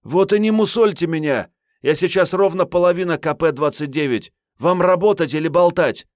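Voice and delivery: high, loud, sharp indignant cry; angry girl. Acted. Agent Marietta snaps at her chief, high and angry. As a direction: bite back hard at the boss.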